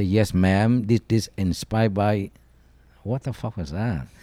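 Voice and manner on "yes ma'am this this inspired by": bored formal voice. Retold or imitated. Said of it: "I say".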